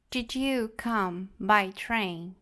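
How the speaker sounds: "Did you come by train?" said very slowly, word by word; slow model sentence. Shown as a demonstration. Teacher slowing the model sentence down for students. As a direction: spell it out slowly for learners. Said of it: "nós temos as seguintes frases".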